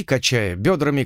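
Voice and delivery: usual speaking voice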